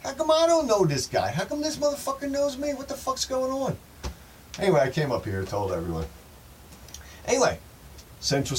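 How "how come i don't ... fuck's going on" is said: high, loud panicked yell; a hammed-up shriek of disbelief; mock freaked-out shout. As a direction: yell it in total confusion and alarm. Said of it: "I was like".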